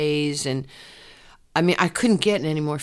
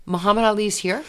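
a higher, louder startled question; surprised; 5 semitones higher, 4 dB louder than usual. Retold or imitated. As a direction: gasp it out, can't believe it. Learns Ali is present.

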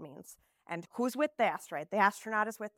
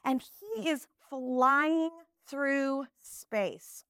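put-on louder, higher storytelling to kids; teacher voice; 4 semitones higher, 4 dB louder, slower than usual. Shown as a demonstration. Teacher telling her class about Alex, slow at the end. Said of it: "teacher demo of card".

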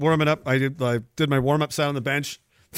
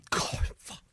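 whispered curse, imitating grandma; hushed, whispered exasperation; muttered aside; 12 dB quieter than usual. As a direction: swear under your breath.

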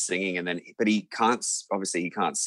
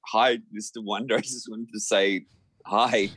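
nervous giggly greeting; 4 semitones higher than usual. Retold or imitated. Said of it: "I was like".

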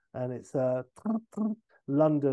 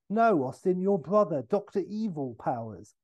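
Basil; 4 semitones higher than usual. Retold or imitated. Basil correcting Austin, raised.

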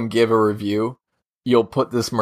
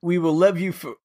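badly faked South African accent, slightly raised; botched South African accent; 4 semitones higher than usual. Host retries the plea to listeners, muddled South African accent. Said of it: "He sounds like a mix of Sean Connery".

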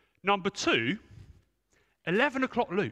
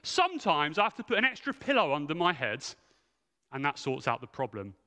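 coy answer; 3 semitones lower than usual. Retold or imitated. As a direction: lightly play his shy, evasive reply. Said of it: "Carl gave me the most coy answer".

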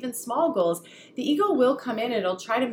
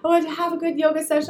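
put-on sweet child voice; 8 semitones higher, 4 dB louder than usual. Son repeating wish.

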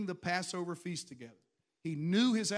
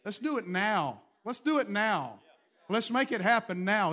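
rallying call; 3 semitones higher, 6 dB louder than usual. Acted. Rallying the church.

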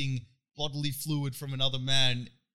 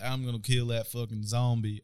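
American accent impression of a TV zombie hunter; Rick from The Walking Dead; 3 semitones lower, 4 dB quieter than usual. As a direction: put on an American accent, lower. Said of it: "You do a good accent".

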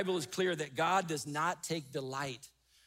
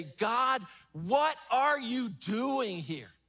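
raised, slow lament to God, pleading; crying out to God. Retold or imitated. Preacher voicing a hurting believer crying out to God, slow lament. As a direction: plead with God, drawn out and aching. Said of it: "cry out to God and say".

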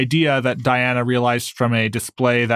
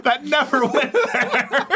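much higher, slow, laughing echo; high squeaky voice; 12 semitones higher, slower than usual. Retold or imitated. Repeats line in high voice.

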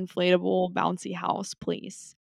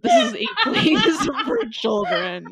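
high-pitched, laughing through the line; trying to stay straight but cracking up; stifled giggles; 14 semitones higher, 4 dB louder than usual. Real, not acted. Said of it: "I'm trying not to laugh".

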